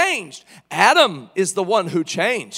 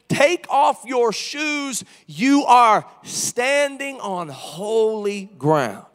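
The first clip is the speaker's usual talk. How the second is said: slow, stern command; commanding voice of God; much slower than usual. Retold or imitated. God to Moses at the bush, slow solemn command. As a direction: lay down the command slowly. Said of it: "he says".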